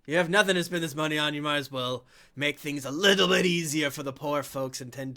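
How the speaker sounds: a touch of self-pep talk, quick; half-acted inner voice; npc talking to himself. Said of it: "I says to myself".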